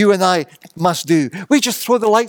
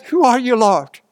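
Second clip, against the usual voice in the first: a higher, startled cry; 4 semitones higher than usual. Acted. Saul thrown from his horse cries out, higher and startled. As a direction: blurt it out, struck blind and shaken. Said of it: "he cries out".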